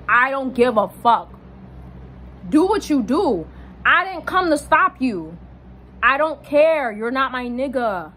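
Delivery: retold fed-up retort, each phrase set apart; emphatic dismissal. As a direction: lay it down firmly, phrase by phrase.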